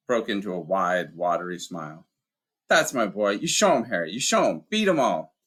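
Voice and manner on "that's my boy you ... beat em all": higher, louder rough-hewn giant, wistful; a big man remembering his dad; Hagrid, gruff giant. Acted. Hagrid to the children, higher, rough and wistful.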